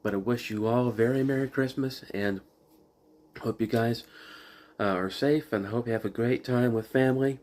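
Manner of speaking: talking around a cough drop; sucking a hard candy. Real, not acted. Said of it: "I've got a cough drop in my mouth".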